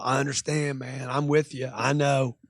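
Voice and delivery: soft, understanding reassurance; low-key, agreeable acknowledgement; calm and rational. Shown as a demonstration. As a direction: soothe an upset customer. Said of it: "stay rational".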